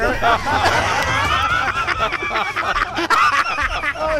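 shrieking fit of laughter; long high laugh. Real, not acted. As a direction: lose it in a high cackle. Long laugh after joke. (ataque de risa agudo)

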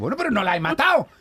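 high, insistent retort; mock arguing. Driver argues back at the lady, mock-exasperated insistence. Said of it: "Y ahí discutiendo".

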